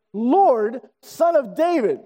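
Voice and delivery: mild mock yell, drawn out; calling out like a yell. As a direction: imitate her calling out, without real volume. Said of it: "she yells out the Messiah title".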